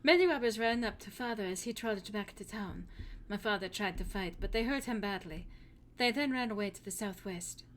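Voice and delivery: put-on lightly held German accent, telling of robbers; a hint of a worried German farm girl. Hilda tells about the brigands in a German accent. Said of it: "trying to do an accent".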